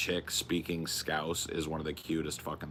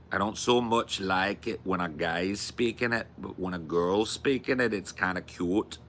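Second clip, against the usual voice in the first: put-on half-successful Scouse accent; shaky stab at a Liverpool accent; attempted Scouse accent. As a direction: have a go at Scouse. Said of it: "I can't do it".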